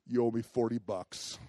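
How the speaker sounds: soft, low, tightly contained demand; restrained anger. Retold or imitated. Fuming man to his brother-in-law, quietly restrained. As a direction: keep the anger inside and say it quietly.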